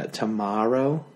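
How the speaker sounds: tomorrow with an ah sound, to-mah-row. Shown as a demonstration. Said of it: "Like there's an A in there".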